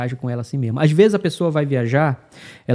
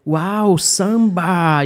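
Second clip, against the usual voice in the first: mock delighted officer; 5 semitones higher, 6 dB louder, much slower than usual. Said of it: "Aí ele falou".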